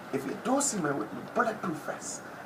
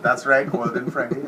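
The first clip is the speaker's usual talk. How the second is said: loud confirmation; 5 semitones lower, 8 dB louder than usual. Real, not acted. Repeating name loudly.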